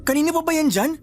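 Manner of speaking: high startled exclaim. Acted. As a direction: jump at the sight of the dog. Nephew startled by sudden dog.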